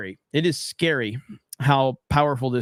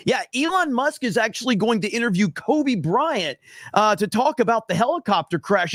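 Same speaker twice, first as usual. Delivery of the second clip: higher, mock-earnest sarcasm; sarcastic; 5 semitones higher than usual. Streamer mocks fake Tesla channels, sarcastic and higher. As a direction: sell the absurd claims sarcastically. Mocking scam channel claims.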